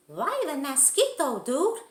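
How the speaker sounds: high, loud squeaky question; tiny chihuahua. Acted. Smallest chihuahua questioning Skipito, high and loud. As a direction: pipe up as the smallest one.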